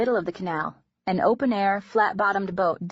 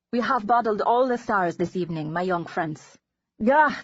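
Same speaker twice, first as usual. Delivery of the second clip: put-on Dutch accent. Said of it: "a delicious accent".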